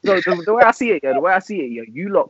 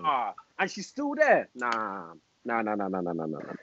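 trailing off softly; fading quiet; 5 semitones lower, 13 dB quieter than usual. Real, not acted. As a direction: let the nahs fade to nothing. Fading dismissal.

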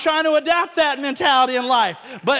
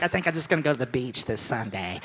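mock lazy excuse; 11 semitones lower than usual.

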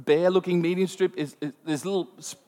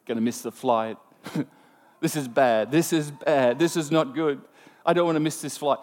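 worried thought; 3 semitones lower than usual. Retold or imitated. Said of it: "And I'm thinking".

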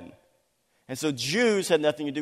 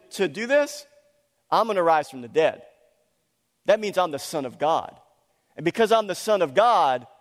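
louder, proclaiming authority firmly; commanding declaration; 4 dB louder than usual. Retold or imitated. Preacher voicing Jesus proclaiming his power, a hint of commanding. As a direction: speak as one who demands allegiance.

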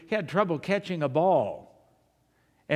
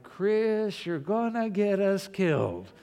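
mock alarm; 4 semitones higher, slower than usual. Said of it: "And I'm going like".

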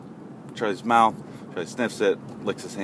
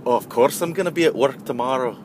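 higher, mock European accent; 4 semitones higher than usual. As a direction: answer in a lightly put-on European accent. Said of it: "a European accent".

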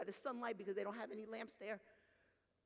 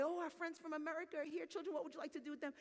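higher, brisk host's welcome; excited greeting; 5 semitones higher, faster than usual. Retold or imitated. Host greets visiting friends before the children, excited. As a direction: voice a host welcoming guests, pitched up.

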